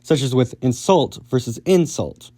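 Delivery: "insult" said twice, once with stress on the first syllable and once on the second, slowly; stress shift demo. Shown as a demonstration. Teacher showing viewers how "insult" moves its stress. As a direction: contrast the two stresses of "insult" carefully. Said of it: "move the stress from the second syllable to the first".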